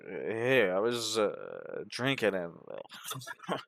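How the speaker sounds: a hint of a rambling drunk; drunk man. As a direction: slur along like a tipsy man with a joke. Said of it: "a drunk man who says".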